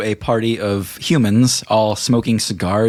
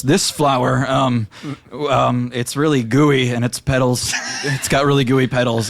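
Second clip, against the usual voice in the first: lightly raised panicky voice; NPC Dave rambling; 5 semitones higher than usual. Acted. GM voicing Dave to Uli, a bit frantic. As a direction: babble nervously about the flower. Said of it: "he shakes his head really hard and he goes".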